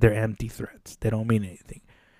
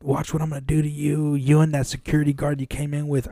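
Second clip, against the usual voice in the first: retold threat; 4 semitones higher, 4 dB quieter than usual. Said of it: "he just continues".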